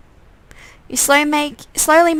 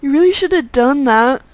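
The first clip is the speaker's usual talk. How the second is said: menacing undead twin; 3 semitones higher, 3 dB louder than usual. Acted.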